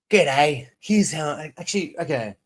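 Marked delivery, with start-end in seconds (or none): 0.1-0.7 mock Aussie accent. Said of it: "like an Aussie accent like that".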